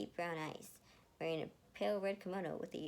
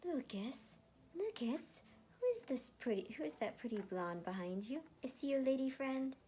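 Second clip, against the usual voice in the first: put-on high, sing-song nosy old lady voice; older woman; 8 semitones higher than usual. Older villager asking Lucas about his lady friend, high and teasing. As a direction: tease like a nosy village matron. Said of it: "asked an older woman".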